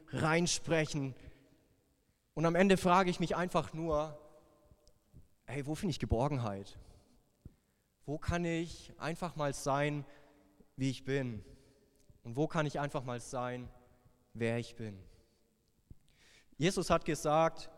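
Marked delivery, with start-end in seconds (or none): 5.4-15.0 a quiet plea for belonging; hushed searching question. Retold or imitated. Pastor asking himself where to find shelter, quietly.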